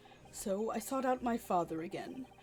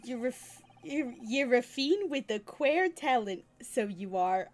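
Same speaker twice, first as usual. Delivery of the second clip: put-on failed Irish accent; 2 semitones higher, 5 dB louder than usual. Streamer voicing McGilded to the witness, in a bad Irish accent. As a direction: stumble through a bad Irish brogue. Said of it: "I can't do an Irish accent".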